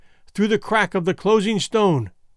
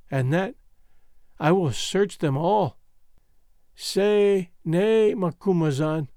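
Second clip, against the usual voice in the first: put-on dying girl's farewell. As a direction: let each line fade as strength goes. Dying love message.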